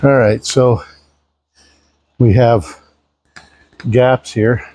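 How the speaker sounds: winded from pumping the gear; out of breath, puffing between words. Real, not acted. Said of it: "Sorry, I'm out of breath".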